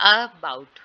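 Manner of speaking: "about" with the opening A pushed and held; deliberate AA-bout for "about"; stress on first sound. Shown as a demonstration. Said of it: "यहाँ पे अ वाला जो sound है".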